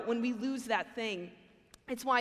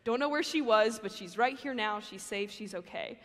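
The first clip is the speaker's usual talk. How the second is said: relieved; 2 semitones lower than usual. Retold or imitated. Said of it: "there's immediate relief in his voice".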